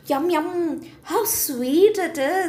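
lightly voiced happy parrot; a hint of a chirpy parrot enjoying a treat; parrot delight. Parrot praising the sweet cherry, lightly chirpy. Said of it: "the parrot said".

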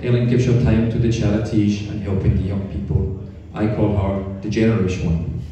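low-pitched Dutch woman impression; Dutch accent. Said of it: "an old Dutch girlfriend of hers".

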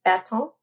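bâton tried with nasal end, no T; attempted French bâton. Shown as a demonstration. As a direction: repeat bâton after the teacher. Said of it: "that wasn't hard".

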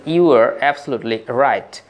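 You are absolutely right drawn out very slowly; slow model phrase. Shown as a demonstration. Teacher modelling the English for students, very slowly. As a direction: spell it out word by word for learners. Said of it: "teacher models the phrase".

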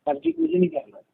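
high teasing. Real, not acted. Teasing refusal in banter.

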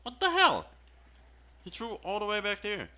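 high, loud what-the-hell; shocked outburst. Real, not acted. Gamer yelling at his teammate's bad throw, shocked. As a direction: react in disbelief to the bounce-back.

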